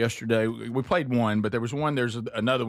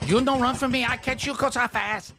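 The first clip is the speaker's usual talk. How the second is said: put-on Asian accent; 10 semitones higher than usual. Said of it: "will have an Asian accent?".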